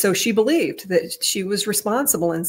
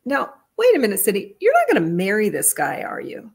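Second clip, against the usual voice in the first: a retold sister's disbelieving challenge, pitched up at the start; incredulous warning; 3 semitones higher, 3 dB louder than usual. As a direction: voice jumps high on now, wait a minute, then fades to a breath. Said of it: "I said it like that".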